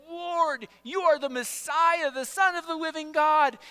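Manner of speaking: high, loud proclamation; ringing acted confession of faith; huge declaration. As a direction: declare it boldly to the room. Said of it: "he had made this huge declaration".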